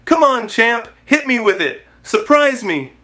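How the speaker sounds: a hint of an Irish brogue, goading; cheeky Irish accent. Conor teasing Cristiano about his watch, in a lightly put-on Irish accent. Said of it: "with that cheeky Irish accent".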